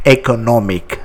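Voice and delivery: économique with French é, ending in -ik; French pronunciation. Shown as a demonstration. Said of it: "Just notice this accent".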